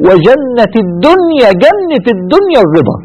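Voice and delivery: "الدنيا" drawn out, with a falling close; slow emphatic dictation. Shown as a demonstration. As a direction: stretch out "جنة الدنيا" slowly. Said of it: "اكتبوها". (نطق بطيء ومؤكد لـ"جنة الدنيا")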